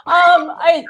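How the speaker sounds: laughing through happy tears, voice up high; overwhelmed winner half laughing, half crying; real joyful tears breaking through; tearful happy laughter. Real, not acted. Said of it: "I'm, I'm gonna cry".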